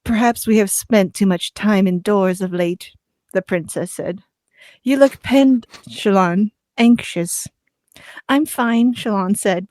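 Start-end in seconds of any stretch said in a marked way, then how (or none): 0.0-2.9 breathy voice. Acted. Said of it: "Stop reading that in a breathy voice". 4.8-8.9 breathy voice. Acted. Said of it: "Stop reading that in a breathy voice".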